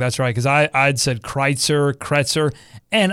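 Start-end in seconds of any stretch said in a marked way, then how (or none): 1.2-1.9 Kreitzer as KRITE-ser, drawn out slowly; wrong pronunciation. Shown as a demonstration. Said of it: "We've been pronouncing it wrong". 1.9-2.5 Kretzer as KRET-ser; wrong pronunciation. Shown as a demonstration. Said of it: "We've been pronouncing it wrong".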